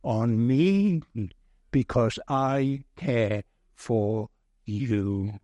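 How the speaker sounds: slow, low, tender invitation; loving Saviour. Retold or imitated. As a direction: speak as the Saviour, gently and slowly. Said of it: "lovingly and delightfully says".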